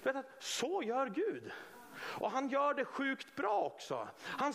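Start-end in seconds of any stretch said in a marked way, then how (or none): none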